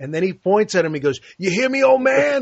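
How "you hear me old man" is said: put-on menacing boxer voice, higher. Retelling a movie scene where a boxer threatens: intimidating Clubber Lang impression. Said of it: "as intimidating, as scary as you can get".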